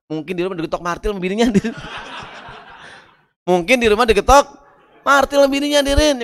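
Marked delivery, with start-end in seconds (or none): 3.5-6.2 high laughing punchline; laughing at the henpecked boss joke. Real, not acted.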